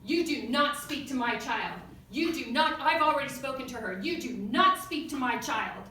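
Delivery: loud, indignant retold scolding; loud, emphatic mock telling-off; flipped-out mom. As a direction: imitate an outraged mother laying down the law. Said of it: "the mom flipped out, and she said".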